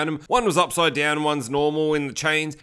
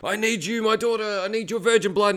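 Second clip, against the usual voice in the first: crazed dad; 6 semitones higher than usual. Retold or imitated. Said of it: "The dad's just going crazy".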